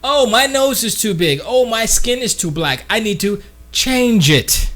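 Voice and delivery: a light mock of self-doubt; mock insecure whine. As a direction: play someone unhappy with their looks. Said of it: "body dysmorphic type of person".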